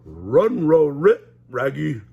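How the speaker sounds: loud dog-speak yell; loud Scooby shout. Acted. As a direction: bark at Shaggy to run. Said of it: "Scooby yelled".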